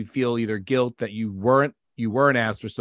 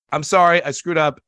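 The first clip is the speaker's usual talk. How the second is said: blurted apology; 4 semitones higher, 7 dB louder than usual. Retold or imitated. Acted public apology quote.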